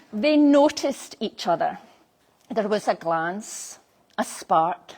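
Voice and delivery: measured scripted narration; ceremony storytelling. A narrator's reading. Celebrant telling guests how the couple met, storytelling.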